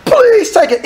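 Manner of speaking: high pleading please; pleading giver. Retold or imitated. Giver begs Paul to accept the gift, high and pleading. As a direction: beg them to take it. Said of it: "bring somebody and say".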